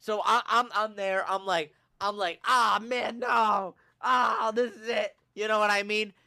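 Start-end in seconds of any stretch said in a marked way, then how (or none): 2.4-5.1 hammed-up agony cry; acting out a dramatic injury wail; overselling an injury. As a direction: play up the pain, mock-dramatic. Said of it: "I really gotta sell this injury".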